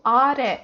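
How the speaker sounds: "are" as two syllables, a-RE, stress on re; last-syllable stress. Shown as a demonstration. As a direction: put the weight on the final "re" of "are". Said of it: "The stress is for re".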